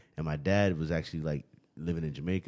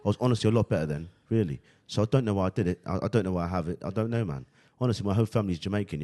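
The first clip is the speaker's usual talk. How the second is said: London accent, a touch louder; British accent; 2 semitones higher, 4 dB louder than usual. Shown as a demonstration. Telling friends about his school year, in a put-on British accent. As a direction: show off the fake British accent. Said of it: "my Jamaican accent is not as convincing as my British one".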